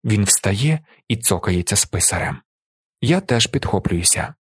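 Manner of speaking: plain reading voice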